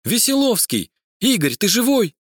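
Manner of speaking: high, alarmed calling to a fallen man. A narrator's reading. Translator calls to injured detective, alarmed and high. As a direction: call out to him in fright. Finds friend lying bleeding.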